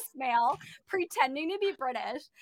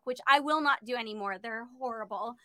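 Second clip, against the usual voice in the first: normal talking voice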